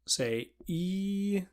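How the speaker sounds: E said high and front; front E vowel. Shown as a demonstration. Teacher guiding the tongue from E. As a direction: clear front E. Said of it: "move your tongue back".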